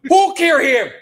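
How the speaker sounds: high, loud hammed-up French detective; mock French accent. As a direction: play a cartoon French sleuth demanding answers. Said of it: "the stupid French accent".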